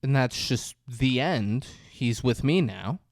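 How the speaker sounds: slow, measured veiled menace; underlying threat. Retold or imitated. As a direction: imitate a casual threat, drawing the words out. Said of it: "it's kinda underlying".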